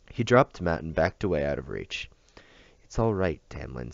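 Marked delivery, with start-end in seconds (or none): 2.8-3.9 put-on calm him like a frightened child; gently. Celia gently soothes the upset bodyguard. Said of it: "Celia said gently".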